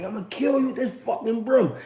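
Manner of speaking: mock kid threat cracking into laughter; can't keep a straight face on the threat; laughing through it. Retelling child threat, laughing.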